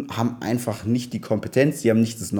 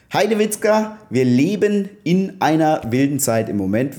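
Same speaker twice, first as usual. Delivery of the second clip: high, bright burst of exclamation; excited exclamation; 4 semitones higher than usual. Real, not acted. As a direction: call it out like a cheer. Exclaims at the wild times.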